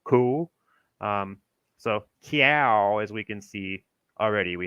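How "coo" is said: "coo" with a rounded oo vowel; "coo", the guessed old vowel for cow; old New England cow. Shown as a demonstration. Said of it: "pronounced more like co".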